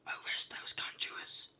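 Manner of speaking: a hushed threat that still bites; awful voice. Acted. King ordering the conjurers arrested, loud angry whisper. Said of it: "in an awful voice".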